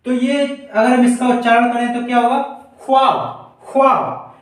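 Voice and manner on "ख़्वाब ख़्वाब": ख्वाब with a rough throaty kh, khwaab; Urdu kh sound. Shown as a demonstration. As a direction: rasp the kh at the start of ख्वाब. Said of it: "खा में झनकार उत्पन्न होगी". (ख़्वाब, ख़ में झनकार के साथ)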